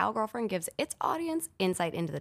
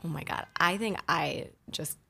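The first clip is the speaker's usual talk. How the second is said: whisper. Pretend. Mock swoon over ASMR.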